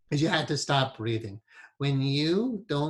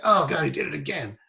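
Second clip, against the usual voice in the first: passive aggressive; 4 dB louder than usual. Retold or imitated. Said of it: "it's this passive aggressive thing".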